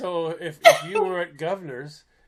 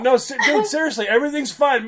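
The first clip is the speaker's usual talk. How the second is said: mild mock yell; 9 semitones higher than usual. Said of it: "him yelling across the room".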